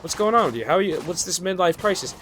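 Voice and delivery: high, needling mock of the coworker. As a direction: needle him like he's lost it. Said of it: "She's like".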